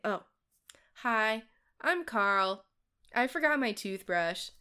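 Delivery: clueless youth Carl. Retold or imitated. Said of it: "and he'd say".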